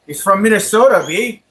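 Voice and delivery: lilting Minnesotan take on "He's from Minnesota, B."; Minnesota accent. Pretend. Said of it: "What if I talk like that, B?".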